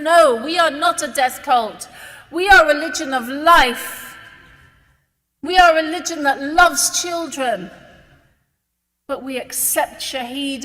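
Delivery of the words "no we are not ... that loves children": louder, firm declaration; a defiant, louder statement of faith; emphatic raised voice. Real, not acted. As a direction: push back hard, rising in volume. Insisting Islam is not death cult.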